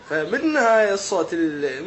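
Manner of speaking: normal talking voice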